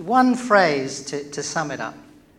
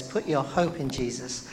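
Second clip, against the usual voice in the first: God's reassurance; 4 semitones lower, 5 dB quieter than usual. Retold or imitated. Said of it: "he says".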